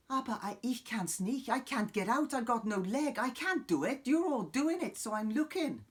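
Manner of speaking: sing-song Welsh voice for a stuck bystander; mock Welsh accent. Mimi plays a Welsh onlooker left out, in mock Welsh. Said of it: "I've gone Welsh now, it's Welsh".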